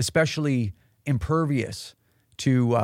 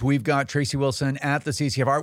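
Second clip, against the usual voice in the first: ordinary talk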